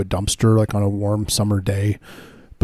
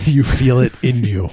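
laughing mock tagline; 3 semitones higher, 4 dB louder than usual.

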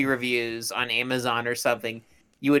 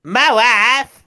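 put-on Borat-style Eastern European accent; clipped Eastern European accent on wife; 9 semitones higher, 8 dB louder than usual. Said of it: "say it in a Eastern European accent".

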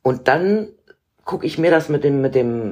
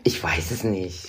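extremely deep bass voice; 7 semitones lower, 7 dB quieter, slower than usual. Real, not acted. Asked about her deep voice.

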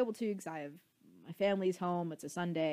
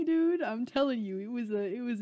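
excited; 5 semitones higher, 7 dB louder than usual. Real, not acted. Excited about the poetry.

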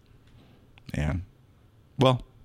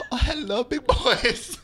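sultry stripper; 10 semitones higher, slower than usual. Acted. Stripper greeting customers.

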